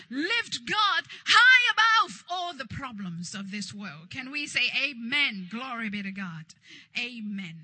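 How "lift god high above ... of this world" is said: preacher's shout, far louder than usual; loud exhortation. Real, not acted. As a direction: belt it out as a rallying call. Preacher peaks exhorting congregation.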